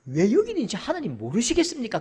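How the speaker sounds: ordinary delivery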